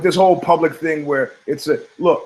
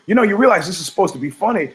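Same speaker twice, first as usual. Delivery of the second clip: nervous mother; 4 semitones higher, faster than usual. Retold or imitated. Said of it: "get nervous and go".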